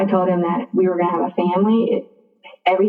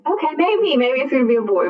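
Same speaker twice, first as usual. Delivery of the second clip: high, sing-out "maybe", easing down; grudging concession; 5 semitones higher than usual. Retold or imitated. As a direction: concede lightly with pitch lifted. Conceding in playful boy-or-girl dispute.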